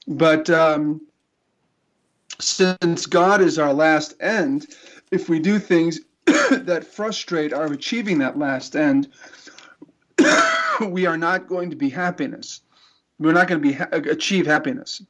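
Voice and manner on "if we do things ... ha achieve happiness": coughing through a cough drop; talking while choking; choking on a drink. Real, not acted. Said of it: "I'm sort of choking to death here".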